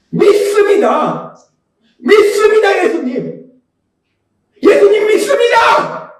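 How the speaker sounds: building, drawn-out shout of faith; crying out. Retold or imitated. Desperate father answering Jesus, crying out. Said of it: "큰 소리로 외치는 거예요".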